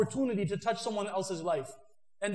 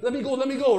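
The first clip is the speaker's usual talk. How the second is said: eager plea; 3 semitones higher, 6 dB louder than usual. Pretend. Eager kid straining.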